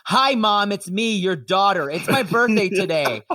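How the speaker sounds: hammed-up, over-explained improv line; heavy-handed improv. Shown as a demonstration. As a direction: spell out the scene clumsily for listeners. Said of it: "you have to be so heavy-handed and inelegant".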